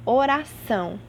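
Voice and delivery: o-ra-ÇÃO, weight on the final syllable; stress on last syllable. Shown as a demonstration. Teacher repeating the example, last syllable of "Oração" stressed. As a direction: say "Oração" deliberately, leaning on "ção". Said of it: "A última sílaba é a mais forte".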